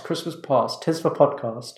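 words through a burp. Real, not acted. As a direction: talk while burping after Coke. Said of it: "Stop burping".

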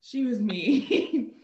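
slow, loud and drawn out; emphatic judgement. Real, not acted. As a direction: lean hard on each word of the verdict. Dishing on a mean instructor.

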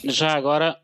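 just recovering from a cough; coughing fit. Real, not acted. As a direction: voice roughened by coughing. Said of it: "peço desculpa pela minha tosse".

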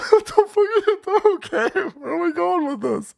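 very high laughing squeal; cracking up incredulously. Retold or imitated. Recalling watching Trump's answer, cracking up in disbelief.

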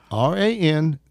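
slow, emphatic spelling, letter by letter; spelled out. Retold or imitated. Man spells his name for a reluctant caller, slow and emphatic. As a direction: spell it out pointedly, each letter stressed.

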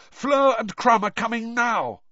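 high, loud, urgent report; panic-stricken. A narrator's reading. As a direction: pass on the news in a panic. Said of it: "looking panic-stricken".

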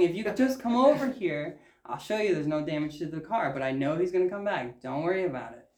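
retold calm reassurance, easing down at the end; measured, placating quote; trying to stay calm. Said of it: "I'm trying to be calm".

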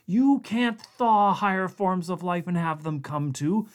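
high, pleading rush; frantic scientist. A narrator's reading. Blair urgently explaining to Connacht, frantic and high. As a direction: explain desperately before they act.

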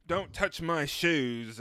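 Pop-star impression. Friend mimicking a bandmate in the tour bus, slow, light impression. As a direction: draw it out, lightly mimicking a pop star. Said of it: "and Victoria's like".

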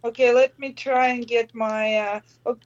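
distant voice on speakerphone. Real, not acted. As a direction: talk from a phone lying away from you. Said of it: "Oh, that sounds a lot better".

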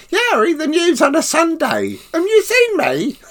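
high, loud cheeky reply breaking into laughter; laughing joke. Retold or imitated. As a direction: tease the Duke with a grin. Clown's cheeky reply to the Duke.

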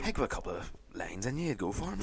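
unvoiced whispered aside. Real, not acted. Egging his co-host on, whispered aside. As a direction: hush it to your partner.

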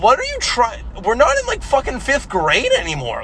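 put-on telling the girl off, high and exasperated; mock exasperated scold. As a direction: snap at her like she's childish. Scolding the girl in retold scene.

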